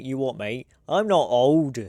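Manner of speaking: put-on a light Cockney pub man accent; lightly voiced old British pub man, affronted. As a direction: toss it off in a rough British pub voice. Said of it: "Something about people accents".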